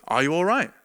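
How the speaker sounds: a light imitation of a soft, calm man's voice; gently ask, as a kind stranger would. A calm voice rousing him from sleep, softly. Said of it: "nice, soft, calm voice".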